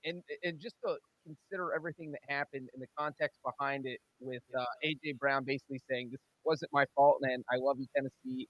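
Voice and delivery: muffled, distant audio; sounding underwater on the call; in a fishbowl. Real, not acted. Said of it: "you sound like you're in a fishbowl".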